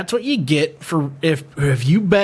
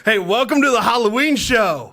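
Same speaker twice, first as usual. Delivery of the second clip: high, hammy show host greeting; Peter Griffin voice; 7 semitones higher than usual. Acted. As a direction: announce the Halloween show like a cartoon dad.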